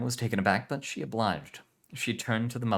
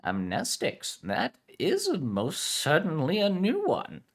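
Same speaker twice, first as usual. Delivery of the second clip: put-on Spanish accent; 10 semitones higher, 4 dB louder, slower than usual. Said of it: "Spanish heritage".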